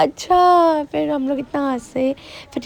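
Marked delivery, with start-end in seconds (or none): 0.0-0.8 amused uncle. Retold or imitated. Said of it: "फिर कहते हैं".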